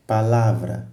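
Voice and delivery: "palavra" repeated with weight on LA; teacher's demo of "palavra", stressed pa-LA-vra; stress on the middle syllable. Shown as a demonstration. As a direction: show learners the strong LA in "palavra". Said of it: "É na sílaba lá".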